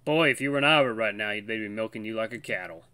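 light Southern twang on the tease; understated Southern accent. Acted. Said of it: "doing, like, a southern accent for him".

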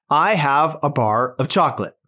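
lightly voiced robot; a hint of a robot reading aloud. Robot reading a sentence without punctuation, light robot voice. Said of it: "back to our reading robot".

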